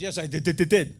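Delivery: loud, stuttering shiver on the last word; shivering parrot. Acted. Parrot answering its owner from the freezer, shivering. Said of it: "there's the little parrot just shivering".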